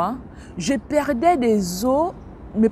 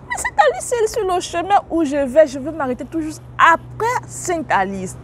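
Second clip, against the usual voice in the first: excited driver; 7 semitones higher than usual. Retold or imitated. Chauffeur surpris, ton aigu.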